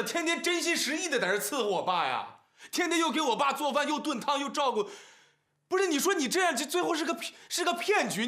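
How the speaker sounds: worked-up protest at a sister; agitated ranting. Acted. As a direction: rant in exasperation, pleading for an answer. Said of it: "你也别冲我们嚷嚷".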